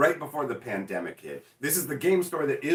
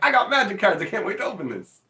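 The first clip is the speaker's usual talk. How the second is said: louder, higher burst of glee at new cards; excited kid; 4 semitones higher, 4 dB louder than usual. Retold or imitated. Collector gushing over a fresh box of Magic cards, excited. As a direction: gush like a kid opening a present. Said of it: "I'm like".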